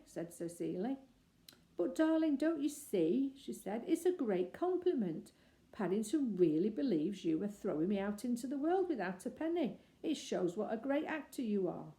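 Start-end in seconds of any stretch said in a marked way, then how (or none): 1.8-11.9 higher, bright explaining; laughing it off; amused delight. Acted. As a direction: daughter teasing her father warmly.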